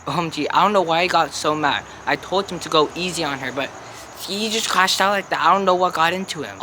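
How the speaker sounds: lightly voiced noble mother; gossipy Lady Capulet. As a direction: gush like a gossiping socialite. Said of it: "the stunning Lady Capulet".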